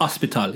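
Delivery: "hospital" as "ospital", no H; dropped H. Shown as a demonstration. Confirming the Jamaican way for his co-host, "hospital" said as "ospital". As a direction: leave the H off "hospital", Jamaican-style. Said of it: "where there are H's, we remove them".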